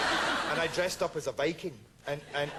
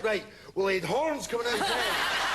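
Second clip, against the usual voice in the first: imagined reply; 6 semitones higher than usual. Retold or imitated. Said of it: "he's like".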